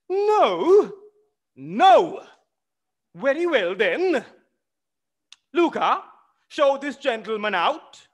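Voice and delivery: high, loud back-and-forth shouting; loud quarrel. Acted. Widow ordering the rude visitor out, shouting. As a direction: shout him out of the house.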